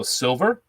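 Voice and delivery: "silver" with a sounded final R; "silver" ending in a clear "er" instead of "ah"; added R. Shown as a demonstration. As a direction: put the R on the end of "silver". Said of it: "there's not supposed to be an R".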